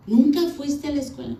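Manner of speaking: retold disbelief. Husband asking if she never went to school, mock disbelief.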